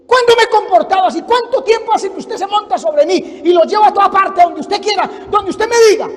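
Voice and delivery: loud, high-pitched string of aggrieved questions; indignant protest. Acted. Donkey protesting to the prophet who rides him, loud indignation. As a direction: pile up the questions, loud and insistent.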